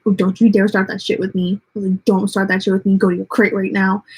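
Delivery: a hint of a stern telling-off; stern scolding. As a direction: put the dog in its place. Scolding the growling dog.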